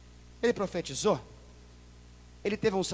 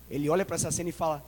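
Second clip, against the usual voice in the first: usual speaking voice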